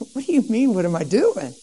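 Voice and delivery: mild mocking disbelief, falling in pitch. Young man brushing off the girl's question, mocking. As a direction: toss it back with a scoff. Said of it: "In a mocking way, I laughed".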